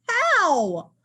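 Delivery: high laughing "how"; amused high question. Acted. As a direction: ask it with a laugh. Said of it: "Fluff laughs and asks".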